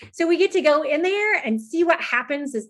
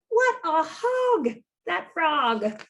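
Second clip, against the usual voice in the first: higher, slow exclamation; mock amazed; 5 semitones higher, slower than usual. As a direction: drawl it out in fake shock. Exclaiming at greedy frog.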